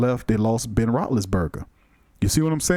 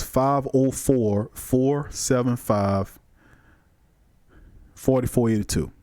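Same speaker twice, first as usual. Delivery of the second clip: phone number said slowly, clearly; slow dictation; slower than usual. Shown as a demonstration. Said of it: "the call-in number again is".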